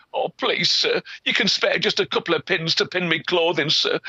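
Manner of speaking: high pleading lass; begging girl. Acted. Girl begging peddler for pins, high and pleading.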